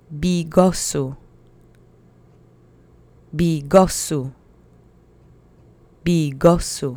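bigosu with heavy stress on go syllable. Showing learners how to say the word: stress on go in bigosu. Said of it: "Accent is on the penultimate syllable".

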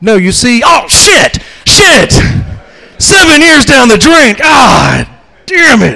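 high, slow shouted outburst with long drawn-out ah. Playing a monk after a seven-year vow of silence, doing stand-up. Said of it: "Buddhist monk who has taken a seven-year vow of silence".

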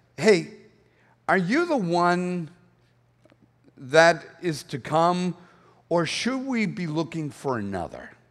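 slow, resigned, let-down, acted disappointed tone. Acting out John the Baptist's question sent from prison: imitating a disappointed voice. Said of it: "hear the disappointment in his voice".

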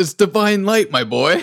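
put-on quintessential British accent. Quoting a line from the footage: quintessential british accent. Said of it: "in the most, like, quintessential British accent".

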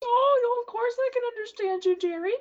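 put-on very high elderly woman voice. Voicing an old woman who greets a tiefling at her door: Advertha old woman voice. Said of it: "I try to communicate with her".

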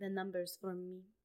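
put-on soft, flirty murmur in a botched Spanish accent. Recapping a scene where Gal comes back, as Gal with a bad Hispanic accent. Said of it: "That's a bad accent".

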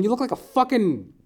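put-on shrill, very high-pitched yelling. Retelling heckling a soccer player at a game: imitating screaming insults. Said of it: "I'm just screaming at him".

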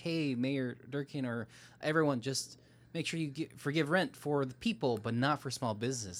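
ordinary talk, nothing marked

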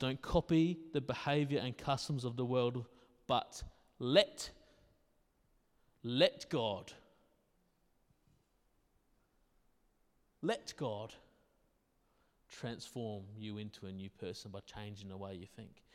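slow, unhurried, deliberate reading. A speaker rereads a verse from Romans to the audience, reading slowly. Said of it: "but I'll read it slow".

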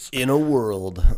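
loud, dramatic movie-trailer announcer voice. Being a little sick, trying out a movie trailer voice. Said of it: "so I've been trying to do my movie trailer voice".

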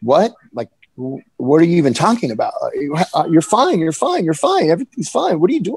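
baffled, bewildered, stumbling, with swooping disbelief. Recounting an argument where she screamed, replaying the speaker's own reaction: retelling own bewildered reaction. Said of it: "I was just bewildered".

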